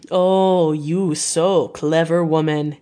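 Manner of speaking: put-on slow, lightly accented admiration; a hint of a charmed foreign professor; admiring foreign doctor. A narrator's reading. Van Helsing admires Mina.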